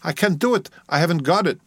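high-pitched, desperate protest; distressed objection, pitched high. A narrator's reading. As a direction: protest helplessly, pitch jumping up. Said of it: "Yorgos protested".

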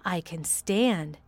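breathless, slow whisper; barely voiced, slow and fragile; hushed slow whisper of a frail boy. Frail boy finding his feet.

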